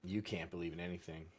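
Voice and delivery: mock deep voice. Cohost answers the disco magic question in a mock deep voice. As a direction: intone it like a deep-voiced cult leader.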